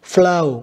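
"Flow" slowly, ending in an OH sound; long O. Shown as a demonstration. Teacher comparing OW spellings for pupils, slow long O in "Flow". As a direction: say "Flow" to rhyme with "go", drawn out. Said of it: "cũng là âm O".

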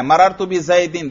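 मररतु बि ज़ैदिन with the final -in of ज़ैदिन clearly sounded; pronouncing the kasra. Shown as a demonstration. Teacher shows the kasra is pronounced, careful demo. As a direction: land on the -din of ज़ैदिन so the jarr is heard. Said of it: "देखो जर पे मैं क्या कर रहा हूं".

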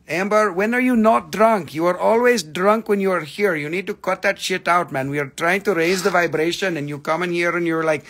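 loud, high, teasing scold. Real, not acted. Scolding Amber for coming in drunk, loud and high.

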